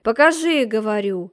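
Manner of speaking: loud, commanding repeat; insist, raising the voice; loud order. A narrator's reading. Margrave forcing the maimed man to show hands, loud order.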